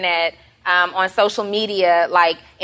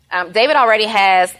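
talking while chewing gum; words around a wad of gum; 4 dB louder than usual. Real, not acted. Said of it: "I have gum in my mouth".

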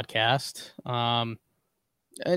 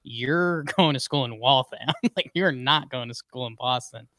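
teasing laugh; 3 dB quieter than usual. Retold or imitated. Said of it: "we're like".

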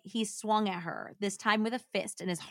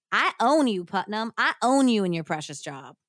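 louder, triumphant threat; gloating threat; 2 semitones higher, 6 dB louder than usual. A narrator's reading. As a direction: lean into her power over him. Blackmailer's threat read aloud.

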